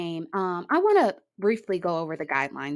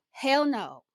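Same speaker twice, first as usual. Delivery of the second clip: dismissive echo; 8 semitones higher, 3 dB quieter than usual. Retold or imitated. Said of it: "I looked at him like".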